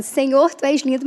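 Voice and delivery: her catchphrase. Retold or imitated. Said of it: "É o, é o meu bordão".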